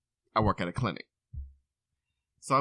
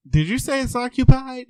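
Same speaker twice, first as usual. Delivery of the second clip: put-on high, louder old lady voice; 13 semitones higher, 7 dB louder than usual. Patient asking the man in the restroom, high old lady voice. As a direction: play the sly old woman. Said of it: "she says".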